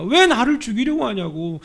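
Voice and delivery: pleading shout from afar; David calling out. Retold or imitated. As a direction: shout it from far away at Saul. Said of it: "저 멀리에서 사울한테 이렇게 얘기합니다".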